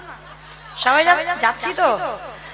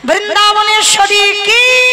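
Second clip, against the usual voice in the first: rallying call with a long held last word; sustained, half-chanted cheer lead; devotional cheer call; 3 semitones higher than usual. Real, not acted. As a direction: call out for the crowd's answer. Leads crowd's call and response cheers.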